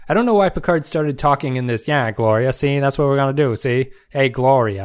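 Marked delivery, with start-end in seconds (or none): 1.9-4.8 lightly mocked Chicago gangster accent; hammy detective talk in a rough stab at Chicago accent; bizarre Dixon Hill accent. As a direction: imitate a bad attempt at a Chicago accent. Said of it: "he talks in this bizarre accent".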